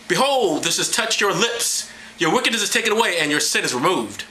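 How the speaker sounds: theatrical angelic declaration; grand seraph pronouncement. Acted. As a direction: proclaim it with mock solemnity. Voices the seraph again.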